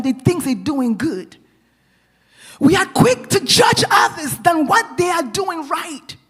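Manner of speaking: high-pitched, emphatic preaching; impassioned sermon delivery with weighty pauses. Real, not acted. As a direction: drive the point home to a congregation. Preaches with raised force.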